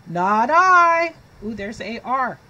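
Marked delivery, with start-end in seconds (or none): 0.1-1.2 higher, louder, curt refusal; dog's refusal. Acted. Dog refuses to help the hen, loud and curt. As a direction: bark out the no. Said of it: "Barked the dog".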